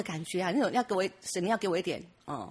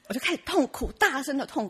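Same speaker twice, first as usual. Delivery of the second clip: laughing; 7 semitones higher than usual. Real, not acted. Laughs recalling her crying.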